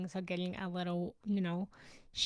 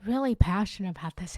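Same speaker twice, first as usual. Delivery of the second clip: passionate; 7 dB louder, faster than usual. Real, not acted. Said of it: "If you can't tell".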